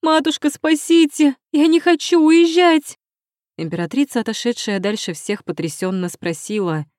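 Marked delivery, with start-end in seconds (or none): 0.0-3.0 high, loud panicked scream; terrified screaming. A narrator's reading. Princess begging her mother not to be sent away, panicked screaming. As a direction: shriek it like she's being dragged away. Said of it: "и в испуге закричала".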